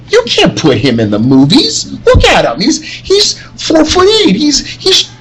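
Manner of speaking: a hammed-up studio boss, pitched high and dragged out; mock studio exec rant. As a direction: squeal it out like an outraged producer. Acted studio exec rejecting the actor.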